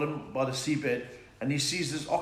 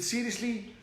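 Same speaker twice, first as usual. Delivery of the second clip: dog voice; 8 semitones higher, slower than usual. Acted.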